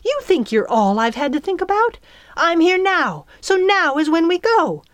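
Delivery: high, loud, indignant retort; flashing back angrily. A narrator's reading. Fairy retorting to angry girl, heated. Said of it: "then flashed back".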